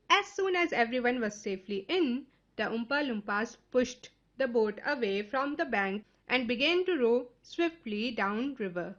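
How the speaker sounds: slow, measured story narration; unhurried reading aloud for listeners. A narrator's reading. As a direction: read it slowly, phrase by phrase.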